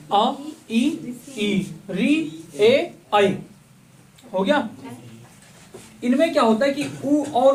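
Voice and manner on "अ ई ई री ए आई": अ, ई, ई, री, ए, आई sounded one by one with unrounded lips; unrounded vowels. Shown as a demonstration. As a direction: separate अ, ई, ई, री, ए, आई, mouth not rounded. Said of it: "आपका मुंह गोल नहीं होगा". (अ, ई, ई, री, ए, आई बिना होंठ गोल किए)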